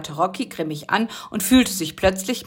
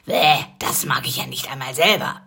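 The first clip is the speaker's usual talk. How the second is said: muttered yuck under the breath; disgusted whisper; 5 semitones lower than usual. Acted. Busy to herself, whispered disgust. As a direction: whisper it with a grimace.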